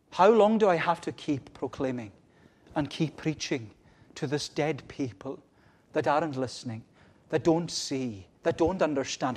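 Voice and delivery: insistent plea, loud at the outset; plainte d'Isaïe. Acted. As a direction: protest to God in short, building phrases. Isaiah's plea building to a cry.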